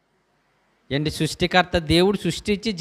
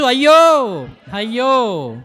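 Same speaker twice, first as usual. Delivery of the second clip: short lament cries; mock wailing; 4 semitones higher, 4 dB louder, much slower than usual. Merchants grieving the great city, mock wail. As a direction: mourn like the merchants. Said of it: "దుఃఖపడుచు".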